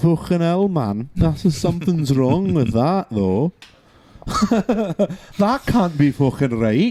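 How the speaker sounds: put-on Scouse accent. Reacting to the claim that the royal family is from germany, in a liverpool accent. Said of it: "I'm doing a fucking Liverpool accent".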